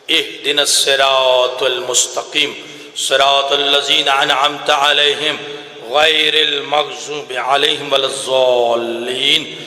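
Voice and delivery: solemn Arabic recitation; Quranic recitation. Acted. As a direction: recite with devotion, drawing out each verse.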